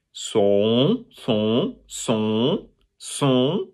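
"son" drawn out from O into a nasal vowel; O turning nasal. Shown as a demonstration. Teacher building up from O, nasal "son". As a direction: repeat "son" slowly, no final n. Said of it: "a O sound to start".

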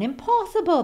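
boastful. Acted. Leprechaun boasting in story.

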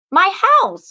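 high, loud shocked cry; cried out. A narrator's reading. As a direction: gasp it out in alarm. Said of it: "cried Macy".

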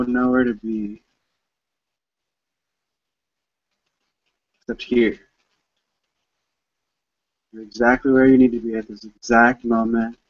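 measured meditation guide with long pauses; unhurried phrases, leaving space to breathe; guided meditation. Real, not acted. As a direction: gently lead listeners inward, phrase by phrase.

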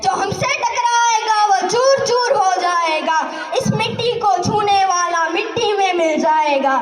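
impassioned patriotic verse declaimed; fiery poem recital. Acted. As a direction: declaim it like a rally poet.

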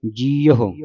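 ਜੀਓ as "jee-a-ho", middle "a" voiced; careful three-part ਜੀਓ, "jee-a-ho"; mukta airra sounded. Shown as a demonstration. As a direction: give the bare ਅ in ਜੀਓ its own short "a". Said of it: "ਐੜਾ ਜਿਹੜਾ ਮੁਕਤਾ ਬੋਲਣਾ ਹੈ".

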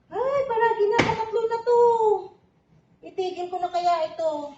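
exasperated. Real, not acted. Slipping again, fed up.

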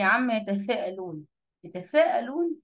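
يتساءلون with a th-like lisp on س; lisped seen. Retold or imitated. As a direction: imitate a teacher lisping the seen in يتساءلون. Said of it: "وبتطلع لي لسانها في السين".

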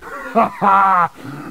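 loud, short derisive laugh; scoffing villain laugh. Acted. Villain scoffs at the great Luigi, loud laugh. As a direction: laugh in the hero's face.

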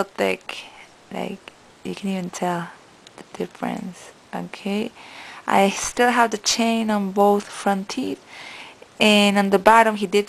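talking with finger on lip; lip pulled down by finger. Real, not acted. Seen 2: Finger tugs lower lip down intermittently to show braces.

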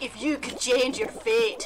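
put-on Irish lilt; mock-Irish movie-line voice; Irish accent. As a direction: try an uncertain Irish accent. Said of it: "I think that's Irish".

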